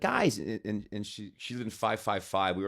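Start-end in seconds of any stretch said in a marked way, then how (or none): 0.0-0.4 high-pitched attempted Wisconsin accent; hammed-up Wisconsin greeting. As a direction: imitate a friend's Wisconsin call, pitched up. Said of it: "trying to do a Wisconsin accent".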